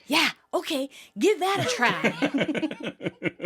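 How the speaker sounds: mock agreement, stretched at the end; sarcastic. Retelling Monica's quip to Phoebe, sarcastic. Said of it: "Monica sarcastically quips".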